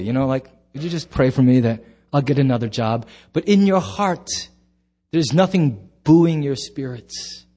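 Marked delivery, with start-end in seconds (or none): 0.7-3.1 quick, dutiful mumbled prayer, lower and faster; perfunctory. Shown as a demonstration. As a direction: rattle it off without meaning it. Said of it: "you kinda say it perfunctorily".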